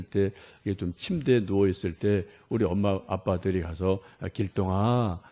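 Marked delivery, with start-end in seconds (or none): 4.2-5.2 a hint of a gentle parent at a sick child's bed; lightly voiced tender mother. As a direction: soothe the child, a touch slow. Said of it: "이렇게 부드러운 말로".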